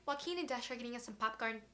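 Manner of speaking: flat robotic line reading. Retold or imitated. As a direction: say it like a stiff robot. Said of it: "I literally sound like a robot".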